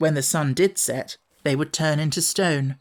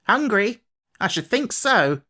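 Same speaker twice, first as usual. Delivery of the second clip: angry; 6 semitones higher than usual. A narrator's reading. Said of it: "said Martha angrily".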